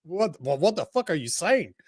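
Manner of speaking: Southern accent impression. Mocking a Southern friend's baffled reaction, Southern accent. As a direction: play a baffled Southern guy in a thick Southern accent. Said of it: "Some of the expressions".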